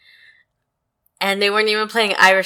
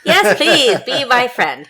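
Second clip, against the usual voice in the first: eager plea; 6 semitones higher, 5 dB louder than usual. Real, not acted.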